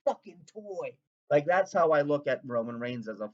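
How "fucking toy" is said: slow, louder cartoon-cowboy awe; a loud, drawn-out Woody line; Woody impression. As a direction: gush like an impressed toy sheriff. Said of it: "when Woody looks at Buzz Lightyear".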